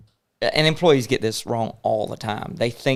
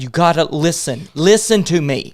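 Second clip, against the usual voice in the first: imitated frustrated mentor demanding attention, louder; retold chewing-out; 4 semitones higher, 5 dB louder than usual. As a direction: re-enact an insistent telling-off, pitched up. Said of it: "cussed me out like crazy".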